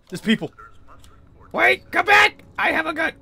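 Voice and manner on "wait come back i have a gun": high calling out. Real, not acted. Calling after game people.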